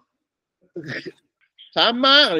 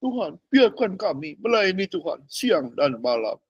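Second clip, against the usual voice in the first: slow, softer humble prayer; mock pious plea; 2 semitones higher, 4 dB quieter than usual. Believers to God, slow soft pious plea. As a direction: plead devoutly, drawn out. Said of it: "Ngomongnya begini ke Tuhan".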